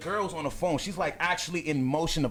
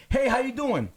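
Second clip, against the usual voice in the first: higher-pitched call to passers-by; friendly greeting; 7 semitones higher, 4 dB louder than usual. Retold or imitated. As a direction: hail a stranger brightly, pitched up. Greeting strangers who ignore him.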